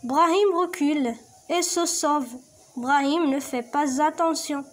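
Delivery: slow, clear read-aloud; slow teacher reading; reading aloud to pupils. Shown as a demonstration. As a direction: read the text slowly for the class. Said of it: "نعاود لكم النص".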